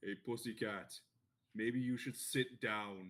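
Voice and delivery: put-on loud, booming ogre voice. Voicing an ogre who stands up and tells someone to sit: twelve-foot ogre voice. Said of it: "this twelve-foot ogre stands up".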